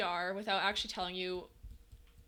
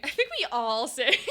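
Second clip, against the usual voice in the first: laughing quote; 4 semitones higher, 8 dB louder than usual. Retold or imitated. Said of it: "Not to sound like Victoria Justice".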